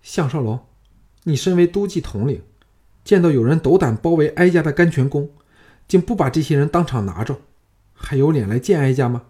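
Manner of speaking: queen dowager berating her commander; angry reproach. Acted. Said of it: "光火说".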